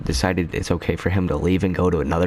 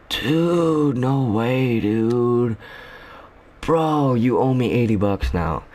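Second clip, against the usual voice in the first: put-on outraged kid; 5 semitones higher, much slower than usual. Kid hears the stuff is gone and demands eighty bucks, shrill mock outrage. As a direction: squeal it out like the shocked kid.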